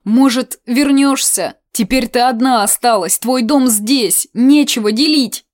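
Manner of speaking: a folksy aunt wailing and pleading; rustic old woman, pleading; old aunt lamenting. Acted.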